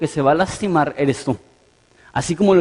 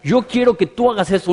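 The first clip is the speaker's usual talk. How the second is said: mock bossy tone, pitched higher; authoritative demand; 5 semitones higher than usual. Preacher imitating people who pray with authority, mock bossy. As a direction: act as if you are in charge. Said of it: "le hablan a Dios con una autoridad".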